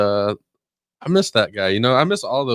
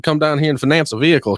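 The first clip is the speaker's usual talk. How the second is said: loosely imitated Texan car dealer accent, a bit louder; a hammed-up Texan accent, selling hard; North Clark's Texan accent; 5 semitones higher, 3 dB louder than usual. Owner in his commercials, pitching cars in a mild Texan accent. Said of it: "'cause he was a Texan".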